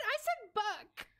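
"buck" said slowly with a crisp k; slow "buck", k not tuh; clear k sound. Shown as a demonstration. Correcting chat on her word, crisp k in buck. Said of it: "k, not tuh".

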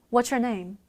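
"what's your name" with "what's your" run together as "wha-chur"; linked pronunciation. Shown as a demonstration. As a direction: glide through "what's your" with a ch in the middle. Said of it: "이게 연음 처리가 돼요".

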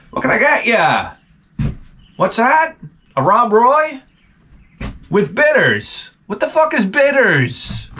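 put-on high-pitched crusty old barkeep; old-fashioned bartender. Vlogger playing an old bartender for his viewers, high cranky voice. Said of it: "I turn into old-fashioned bartender".

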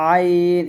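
"আইন" with pressure from the throat and a long vowel; pressed ayn. Shown as a demonstration. Teacher showing the letter must be pressed, pressed ayn. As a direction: squeeze the start of "আইন" and stretch it. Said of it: "একটু চাপ দিয়ে বলতে হবে".

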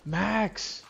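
high-pitched screaming over a big win; shrieking jackpot winner. Real, not acted. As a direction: shriek with rising joy. Slot max win reaction.

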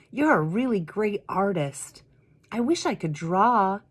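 admiring, in a hint of a boy's voice; little boy. Little boy admiring Vashti at the art show, lightly voiced. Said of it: "he said".

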